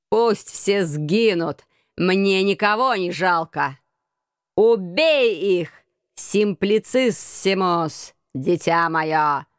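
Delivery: slow, drawn-out mad scientist; mad scientist yelling. Acted. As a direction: proclaim it like a crazed scientist. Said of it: "громогласно вопил сумасшедший учёный".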